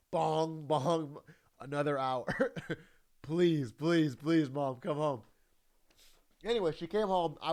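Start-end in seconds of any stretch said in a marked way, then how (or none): 0.1-1.2 imitated clock bong. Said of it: "it would go again". 3.2-5.2 mock whiny begging. Retold begging mom to come home.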